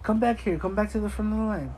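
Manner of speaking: overly accommodating customer-service voice; mock friendly. Waving kids to the front with fake cheer. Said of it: "So it's like".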